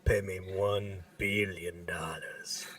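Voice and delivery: whispered, muffled kidnapper phone voice. Retold or imitated. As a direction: hiss it low like a masked extortionist on the phone. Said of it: "that muffled voice".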